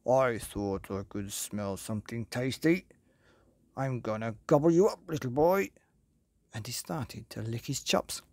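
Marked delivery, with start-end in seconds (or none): 0.1-5.7 a lightly voiced greedy big wolf; low greedy wolf. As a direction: growl it out hungrily, a hint of menace. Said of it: "in a low, greedy voice".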